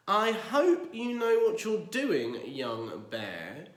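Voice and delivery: uneasy warning. Acted. Worried neighbour warning.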